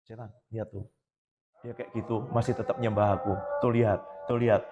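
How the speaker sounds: God boasting to Satan. Retold or imitated. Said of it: "Dia kan pamer".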